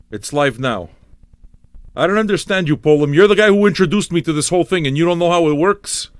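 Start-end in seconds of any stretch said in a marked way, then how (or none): 2.0-6.1 higher and higher, incredulous at Poland; can you believe this guy; pitched-up mock outrage; exasperated disbelief. Real, not acted.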